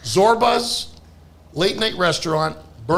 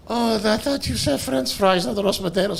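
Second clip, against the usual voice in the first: a hint of an accented waitress; Greek waitress; 3 semitones higher than usual. Waitress answers the customer.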